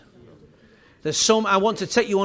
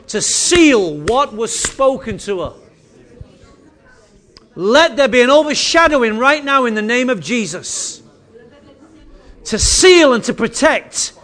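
building fervent prayer; 2 semitones higher, 6 dB louder than usual. Real, not acted. Prayer rising in force.

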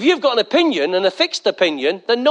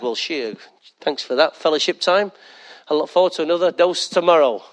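mock weary God; 3 semitones lower than usual. Preacher voicing God tired of emotional prayers, drily sarcastic. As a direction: play God fed up and sarcastic. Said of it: "God's like wiping his eyes".

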